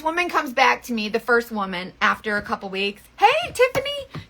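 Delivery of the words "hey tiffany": high, slow sing-song greeting; a customer calling out a bright hello, drawn out. Retold or imitated. Imitating a customer's sing-song greeting.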